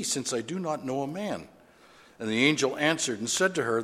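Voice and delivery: measured, formal Bible reading voice; scripture reading. Acted. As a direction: read the verses like a lesson from the pulpit. Pastor reads Luke aloud.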